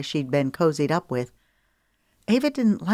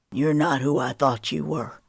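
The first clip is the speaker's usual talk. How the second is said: lightly voiced hurt man. Cash cold.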